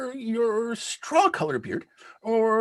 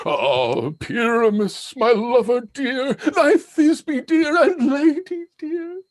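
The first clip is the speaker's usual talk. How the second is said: hammed-up dainty lady; a hint of a squeaky maiden, slow; monstrous little voice; 5 dB louder, slower than usual. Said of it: "I'll speak in a monstrous little voice".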